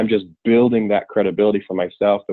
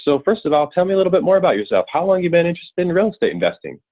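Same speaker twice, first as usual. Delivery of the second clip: rattled off in one go, very fast, very high; 9 semitones higher than usual. Reading a script line full of commas, very fast with no pauses. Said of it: "Don't pause, like just really, really quick".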